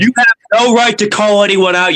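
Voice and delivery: high-pitched indignant outburst; real angry outburst. Real, not acted. Streamer berates a pundit for calling people out, angry outburst. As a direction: burst out in anger, pitch jumping up.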